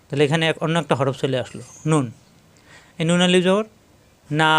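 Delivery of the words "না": না with a long held "aa"; stretched vowel. Shown as a demonstration. Teacher demonstrates madd, না drawn out long. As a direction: hold the vowel of না for two beats. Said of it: "এভাবে".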